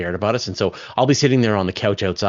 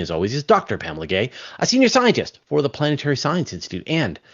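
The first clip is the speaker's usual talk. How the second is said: podcast host intro; 2 semitones higher than usual. Acted.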